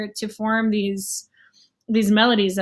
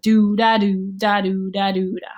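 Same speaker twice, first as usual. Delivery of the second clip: long do, short da; swing rhythm; 3 semitones lower than usual. Shown as a demonstration. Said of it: "So it's a little bit different".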